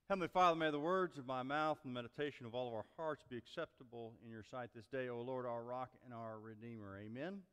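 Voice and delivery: quiet prayer, softening toward the end. Real, not acted. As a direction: pray aloud, quick at first, then hushed. Opening prayer.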